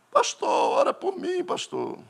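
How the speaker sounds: high pleading plea; pleading young man. Retold or imitated. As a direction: beg the pastor to pray. Jovem pide oración al pastor.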